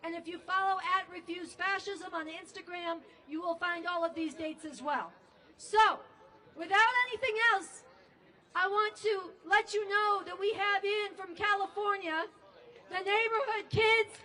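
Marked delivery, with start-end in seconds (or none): 5.6-14.2 rising hype for the performers; excited intro. Real, not acted. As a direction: hype the crowd up as you bring them on. Host hypes crowd, introduces act.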